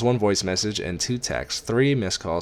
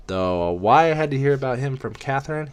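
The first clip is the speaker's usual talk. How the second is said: mild higher-pitched fatherly scolding; 7 semitones higher, 4 dB louder than usual. A narrator's reading. Ray to Lynn about hearing it from Catherine, scolding. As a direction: chide her on a raised pitch. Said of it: "he scolds".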